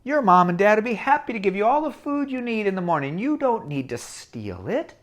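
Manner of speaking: gentle conscience. Acted. Good conscience voice.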